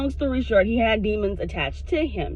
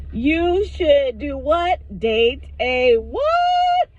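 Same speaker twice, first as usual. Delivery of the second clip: mock disbelief; 5 semitones higher, 4 dB louder, much slower than usual. Mock hearing shirt's advice.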